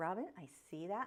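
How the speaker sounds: hushed aside, said quietly. Answering a viewer's comment so no one notices: saying it quietly. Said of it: "I'm saying it quietly so no one notices".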